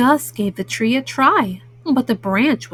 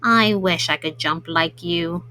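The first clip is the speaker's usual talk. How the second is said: lower, lightly voiced character wishing he could jump; a hint of a sad little cat, pitched down; wistful Gus; 7 semitones lower, 4 dB quieter than usual. Gus voiced in read-aloud story.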